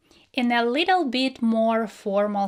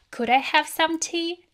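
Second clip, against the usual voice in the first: polite request; 6 semitones higher than usual. Shown as a demonstration. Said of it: "a little bit more formal situation".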